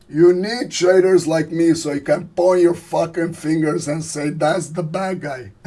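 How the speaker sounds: hammed-up gangster speech; Al Pacino. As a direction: open big like a film mobster, then draw out the ending. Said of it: "This is my impersonation of Al Pacino".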